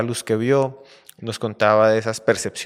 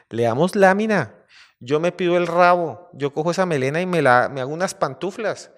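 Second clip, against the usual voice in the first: higher, louder, mildly acted greedy claims; eager hunters; 6 semitones higher, 6 dB louder than usual. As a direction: call dibs like hunters sharing out spoils. Hunters eagerly dividing up the lion.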